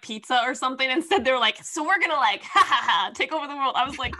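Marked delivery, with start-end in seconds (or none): 1.6-3.8 hammed-up villain plotting through laughter; louder, laughing mock evil scheme. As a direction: play a cartoon baddie cackling. Mocking villains' convenient plan.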